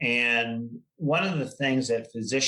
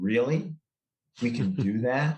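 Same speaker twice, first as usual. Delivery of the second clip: dry, flat, expressionless deadpan delivery, acted. Retelling how the head of a hospital R and D area reacted: imitating a deadpan reply. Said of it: "he just deadpan looked at me and said".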